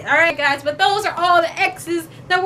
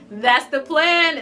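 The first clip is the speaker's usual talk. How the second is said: laughing; much slower than usual. Shown as a demonstration.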